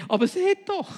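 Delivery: high, loud startled cry; king calling out. Acted. Frightened king calls out to his advisers, loud. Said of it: "rief Nebukadnezar".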